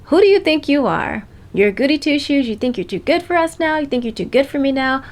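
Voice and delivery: mildly indignant mock confrontation; jealous challenge. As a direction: voice a jealous friend taking someone to task. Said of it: "they kind of feel like".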